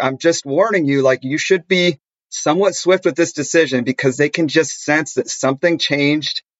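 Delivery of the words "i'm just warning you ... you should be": plain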